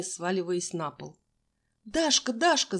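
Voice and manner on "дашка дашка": high, louder frightened call; alarmed cry. A narrator's reading. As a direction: cry out her friend's name in alarm. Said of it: "закричала Мила".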